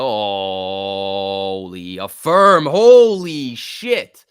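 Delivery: real thrilled outburst; excited shout. Real, not acted. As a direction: yell it as the stock rips. Excited at stock jump.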